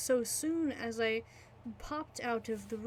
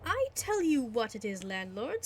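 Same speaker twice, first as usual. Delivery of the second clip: calm. Acted. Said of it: "quite calmly".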